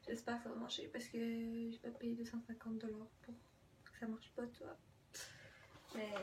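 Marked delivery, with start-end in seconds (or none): 0.1-4.8 a soft worried whisper to herself; chuchoté. Real, not acted. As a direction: whisper the worry under your breath. Worried aside about the price. (chuchotement inquiet en aparté)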